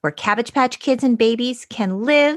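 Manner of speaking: fairy-tale narration, a touch of wonder at the crystals; dramatic story reading. Shown as a demonstration. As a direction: read it like a storybook for kids. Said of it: "a dramatic abridged reading".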